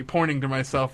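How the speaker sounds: ordinary delivery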